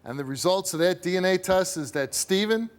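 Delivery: dramatic announcement. Real, not acted. Host announces DNA result.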